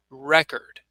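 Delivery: 「Record」の頭を強く、REC-ord; noun stress. Shown as a demonstration. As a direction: stress REcord on the first syllable. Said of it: "I would pronounce it like this".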